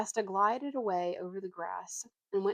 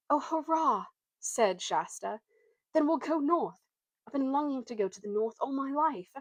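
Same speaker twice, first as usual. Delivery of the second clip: put-on excited boy; 7 semitones higher, 4 dB louder than usual. Boy thrilled to go north.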